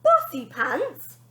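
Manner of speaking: slow, loud sneer. Acted. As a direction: sneer the name slowly. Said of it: "sneered the girl".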